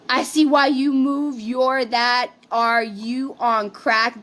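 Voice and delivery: drawn-out mock reading; slow mocking quote. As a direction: read her words slowly and snidely. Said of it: "She says".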